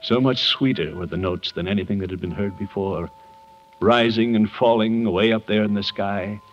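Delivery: put-on unhurried storybook reading to children; reading a story aloud. Man reading a Christmas story to orphans, gentle storytelling. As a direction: read the Christmas tale gently to the kids.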